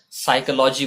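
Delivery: "साइकोलॉजी" as sai-ko-LAW-jee; साइकोलॉजी ending in law-jee; incorrect pronunciation. Shown as a demonstration. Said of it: "लजी की वजह से ये फिर से गलत है".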